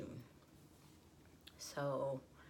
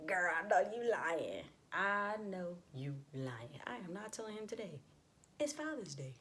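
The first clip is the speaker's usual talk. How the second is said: hammed-up indignant refusal; acted disbelief; 5 semitones higher, 5 dB louder than usual. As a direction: open loud and incredulous, then hold firm up high. Acted protest at mother's demand.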